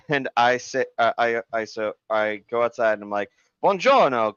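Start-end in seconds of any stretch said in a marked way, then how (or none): 3.6-4.4 higher, playful mock-Italian hello; goofy Italian greeting. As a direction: toss out a silly Italian greeting. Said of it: "I'm just being weird".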